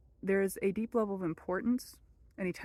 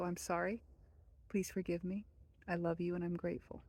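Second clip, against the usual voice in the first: soft prayer; 8 dB quieter than usual. Shown as a demonstration. Reciting the prayer.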